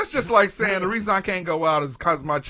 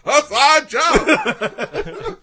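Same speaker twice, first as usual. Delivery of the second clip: slow gleeful drawl; 9 semitones higher, 6 dB louder, much slower than usual. Pretend. Voicing the killer, drawn out.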